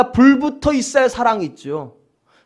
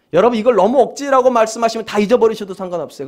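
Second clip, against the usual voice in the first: ordinary delivery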